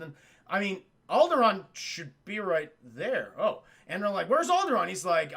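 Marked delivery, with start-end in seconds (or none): 4.3-4.9 high, louder baffled question; retold confusion, pitched up; mock bewilderment. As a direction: act out a startled demand.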